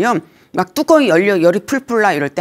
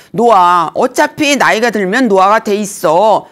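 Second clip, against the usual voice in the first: mock lament; 3 semitones higher, 4 dB louder than usual. Lecturer mimics an older woman lamenting her wrinkles, mock-whiny and louder. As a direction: whine about the wrinkles, half-mocking. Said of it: "막 이러시지 말고".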